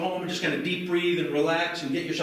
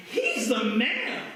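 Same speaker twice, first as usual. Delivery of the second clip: mock cheer; 5 semitones higher, much slower than usual. Shown as a demonstration. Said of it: "Say it like you mean it".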